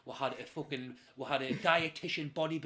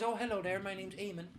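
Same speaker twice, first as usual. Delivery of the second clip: imitated Belfast voice, higher pitched; Belfast accent; 4 semitones higher, 3 dB quieter than usual. Eamon introducing himself to new flatmate, Belfast accent. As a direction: introduce yourself in a put-on Belfast lilt. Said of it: "is this my Belfast accent".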